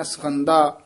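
ਸਖੰਦਾ with only a short a after the s; vowel dropped. Shown as a demonstration. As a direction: clip the first vowel of ਸਖੰਦਾ to almost nothing. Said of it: "ਨਾ ਕਹਿਣਾ".

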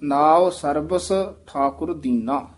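ਸਰਬਸ with short, even vowels; careful model line, ਸਰਬਸ kept as sarbas; correct pronunciation. Shown as a demonstration. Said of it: "ਇਸੇ ਤਰ੍ਹਾਂ ਹੀ ਉਚਾਰਨ".

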